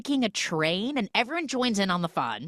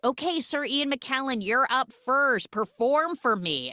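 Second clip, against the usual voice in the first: Dame Judi Dench cat; 7 semitones higher than usual. Retold or imitated. Voices Judi Dench cat giving orders.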